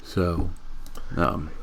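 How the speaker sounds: mid-yawn words. Real, not acted. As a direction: talk through a yawn. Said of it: "I can't stop yawning today".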